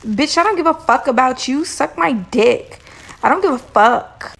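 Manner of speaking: mock reality-show diva. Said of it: "the other bitch is like".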